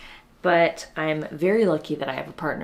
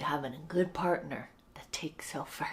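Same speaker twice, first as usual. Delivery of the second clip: whisper; 6 dB quieter than usual. Real, not acted. Talking quietly, baby asleep.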